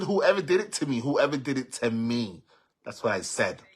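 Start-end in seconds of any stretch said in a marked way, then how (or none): 0.0-1.0 quoting herself higher and louder; retold outburst. Retelling her post to followers, louder and higher. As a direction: fling the words out like the original shout.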